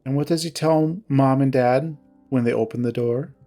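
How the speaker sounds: mildly curt, controlled grievance. Acted. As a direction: recount the betrayal with restrained reproach. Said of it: "her tone curt".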